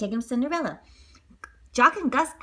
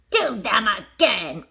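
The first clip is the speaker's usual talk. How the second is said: cruel order; 5 dB louder, much slower than usual. Acted. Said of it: "ordered cruel stepmother".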